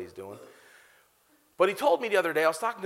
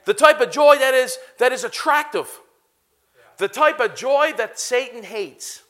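loud, emphatic sermon refrain; building preacher's cadence with punched key words; preaching; 4 semitones higher, 8 dB louder than usual. Real, not acted. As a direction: preach it out to the crowd, phrase by phrase.

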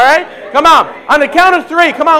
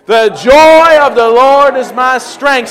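slow declaration; 6 dB louder, much slower than usual. Real, not acted. Leading congregation in a declaration.

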